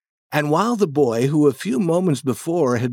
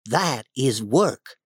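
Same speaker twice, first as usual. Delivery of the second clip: higher, feigned surprise; innocent boy Tom; 8 semitones higher, 3 dB louder than usual. Acted. Tom pretends to enjoy painting to hook Ben, higher voice.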